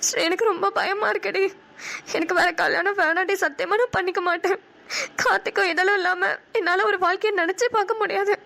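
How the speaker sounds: crying through the words; tearful pleading. Acted. Kanmani tells her friend she won't remarry, tearful. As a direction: plead while close to tears. Bride frightened of forced remarriage.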